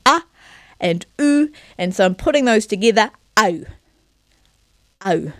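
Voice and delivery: "ah" wide open, "oo" rounded, then "au" glided; vowel glide demo. Shown as a demonstration. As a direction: slide from ah to oo into "au". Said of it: "think of that spectrum".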